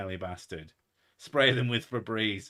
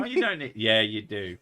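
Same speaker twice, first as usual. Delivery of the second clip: retold comedy bit; 2 semitones lower, 3 dB louder than usual. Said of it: "Jim Gaffigan bit".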